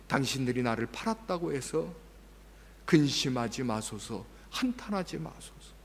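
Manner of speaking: 부드럽고 낮게, 천천히 위로하는 말; gentle forgiveness. Pretend. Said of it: "이렇게 얘기하는 것이 아니라". (자기를 판 형들을 조용히 위로하는 목소리)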